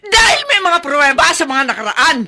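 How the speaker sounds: tearful shout. Acted. Wife sobbing during quarrel.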